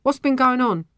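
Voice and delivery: a touch of challenge; suspicious. A narrator's reading. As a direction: probe for what happened. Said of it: "he asked suspiciously".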